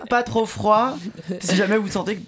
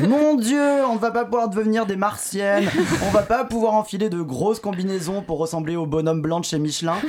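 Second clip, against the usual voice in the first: mock outraged women. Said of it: "elles ont toutes crié au scandale".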